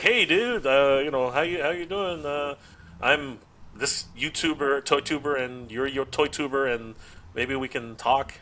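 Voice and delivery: hesitant, halting awkward opener; awkward approach. Retold or imitated. Toy YouTuber introducing himself to another, awkwardly. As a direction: feel your way slowly through an introduction. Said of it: "it was the weirdest conversation".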